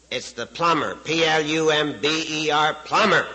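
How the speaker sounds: mildly exasperated, slow letter by letter; exasperated spelling out. Acted. Plumber spelling his trade for the parrot, mock exasperation. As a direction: spell it out as if to someone dim.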